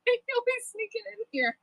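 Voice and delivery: high, giggly teasing; laughing tease. Real, not acted. Streamer teasing a friend in chat, laughing. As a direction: tease her through a laugh.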